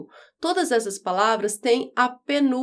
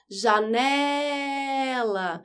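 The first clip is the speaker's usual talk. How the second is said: very drawn-out call, stretching the "ne" of Janela; much slower than usual. Shown as a demonstration. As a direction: call it like a name at someone's door. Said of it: "em qual sílaba você fica mais tempo gritando?".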